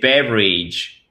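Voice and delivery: beverage drawn out slowly; slow, careful English "beverage"; demonstrated pronunciation. Shown as a demonstration. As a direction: model "beverage" slowly for a learner. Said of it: "c'est beverage".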